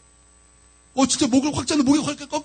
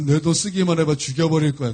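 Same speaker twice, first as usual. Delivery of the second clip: low gangster voice, not raised; loan shark threat; 8 semitones lower than usual. Retold or imitated. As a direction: imitate a thug's threat in a low voice. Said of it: "사채업자가 여러분 처음부터 막". (낮게 위협하는 조폭 사채업자 흉내)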